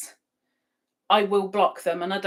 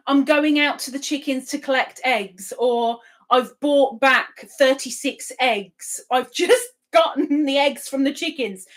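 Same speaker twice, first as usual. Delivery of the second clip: imitating Barbara; 3 semitones higher, 4 dB louder than usual. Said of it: "She's always talking about the eggs".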